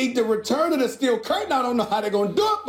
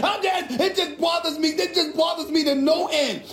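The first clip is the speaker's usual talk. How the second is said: upset outburst; 4 semitones higher than usual. Real, not acted. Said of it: "I'm a bit emotional right now".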